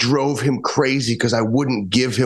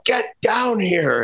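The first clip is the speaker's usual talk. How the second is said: higher, slow mock yell of an angry father; 9 semitones higher, much slower than usual. Teen retelling father calling him downstairs, drawn-out mock yell. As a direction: call him down, drawn out and high, only half shouted. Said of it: "he'd scream and yell".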